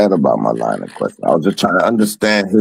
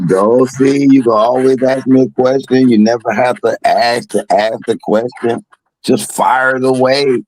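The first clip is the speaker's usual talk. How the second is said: imitating her; 5 semitones higher than usual. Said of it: "You always say".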